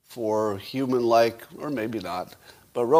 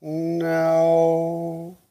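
into a cup; 5 semitones higher, 5 dB louder than usual. Real, not acted. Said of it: "hear the echo in my cup".

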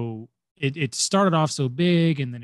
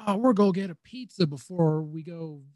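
mock Southern accent as the carefree Turtles; a hint of a Southern accent, playful; 5 semitones higher than usual. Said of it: "I'm doing a Southern accent".

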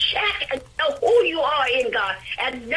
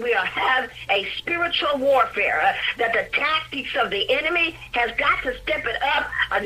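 preaching. Acted. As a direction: drive it home to the congregation. Preaching at full force.

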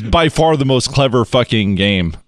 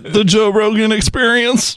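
podcast announcer voice; 10 semitones higher than usual. Acted.

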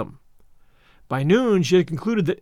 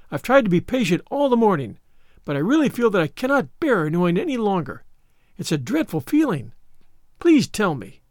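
put-on higher-pitched pleading child; imploring; 3 semitones higher than usual. Anne begs Miss Cuthbert for her fate, imploring. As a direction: plead as if you can't bear waiting. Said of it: "said in an imploring voice".

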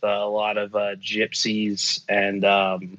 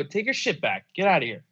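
high-pitched, exasperated retold brush-off; indignant dismissal; 6 semitones higher than usual. Teller rebuffing a hustler who wants money, indignant. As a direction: send him packing, pitch jumping up.

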